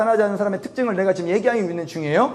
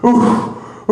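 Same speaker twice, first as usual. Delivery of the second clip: imitated "woo" sound; 3 semitones higher, 4 dB louder than usual. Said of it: "우 하고 내 옆에 붙어 있고".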